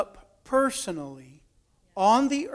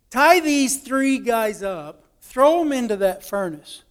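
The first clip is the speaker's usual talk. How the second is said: retold furious king; 3 semitones higher, 3 dB louder than usual. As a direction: give a stern order, dragging each word. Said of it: "the king got furious mad".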